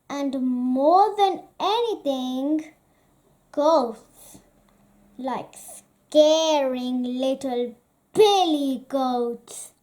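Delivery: scare the little brother on purpose; hammed-up ghost story tease; spooky teasing. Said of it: "with a grin".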